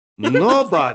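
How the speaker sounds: put-on heavy Ukrainian accent. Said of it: "I'll mimic his very thick accent".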